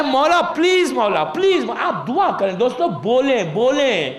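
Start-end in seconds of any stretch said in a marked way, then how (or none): 0.0-0.9 first مولا please lifted higher, coaxing; mild pleading. Retold or imitated. Preacher models a fond plea to the Imam, lightly coaxing. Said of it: "پیار کریں". 0.9-1.6 مولا please called out harder, falling on please; urgent plea. Retold or imitated. Preacher models an insistent plea to the Imam, called out. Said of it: "پیار کریں".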